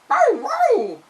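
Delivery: high, loud yapping bow wow; dog bark. Acted. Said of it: "said Toto".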